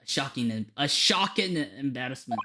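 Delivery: put-on Scottish accent, recounting a scandal; Scottish character. Recalling Barclay's darkest hour, Scottish accent. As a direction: tell it as a rueful Scot.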